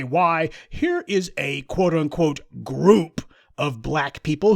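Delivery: slow, put-on voice of the establishment; mock establishment voice. Commentator mocking white supremacy praising immigrants, slow put-on voice. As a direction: drawl it out with smug mock surprise. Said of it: "point to and say".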